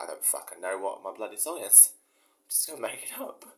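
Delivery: lightly voiced Cockney folk singer; a hint of a Cockney folk singer mumbling on stage. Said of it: "like a folk singer".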